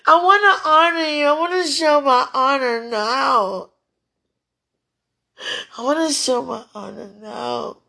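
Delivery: almost yelling with fervor, then easing slightly. Real, not acted. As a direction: let the voice climb as you declare devotion. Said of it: "not yelling, but, you know, getting higher pitch".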